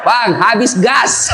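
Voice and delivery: slow, drawn-out wife's message; lightly voiced wife reading her text; wife's plain request. Wife texts husband she's out of gas, drawn out slowly. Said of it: "Paling di WhatsApp".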